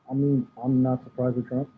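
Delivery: muffled, like a covered mic. Real, not acted. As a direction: speak through a muffled microphone. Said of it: "You sound muted".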